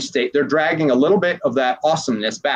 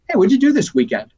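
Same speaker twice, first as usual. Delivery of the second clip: suddenly bright, higher casual question; breezy distracting question; 8 semitones higher than usual. Coach jolting a client out of a painful state, breezy. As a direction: toss it off lightly to break the mood. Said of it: "Or I might just be like".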